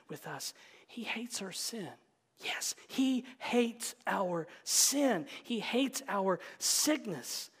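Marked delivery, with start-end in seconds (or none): 0.9-1.9 quiet statement. Shown as a demonstration. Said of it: "Let me say that again". 2.4-7.5 slow, deliberate, each word weighed; slow emphatic repeat. Shown as a demonstration. Preacher repeating to congregation, slow and emphatic. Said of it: "Let me say that again".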